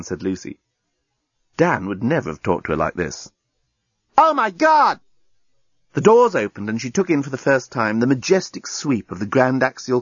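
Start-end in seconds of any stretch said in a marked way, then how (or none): 4.2-5.0 high-pitched gasping amazement; astonished exclamation. A narrator's reading. Lucy first sees the Grand Axial Canal, astonished. Heroine amazed as doors open.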